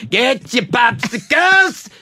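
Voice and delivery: vendor shout. Retold or imitated. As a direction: belt it to the upper deck. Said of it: "mostly it's my call".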